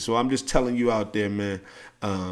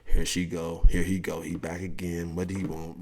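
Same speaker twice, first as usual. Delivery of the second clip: low, soft groaning grumble; quiet annoyed grumble; dreading mutter; 4 semitones lower, 5 dB quieter than usual. Retold or imitated. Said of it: "You already like".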